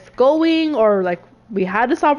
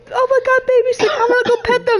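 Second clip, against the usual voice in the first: much higher, cooing squeal with a laugh; gushing over dogs; 10 semitones higher, faster than usual. Retold or imitated. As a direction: coo it like someone dying to pet a dog. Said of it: "And she's like".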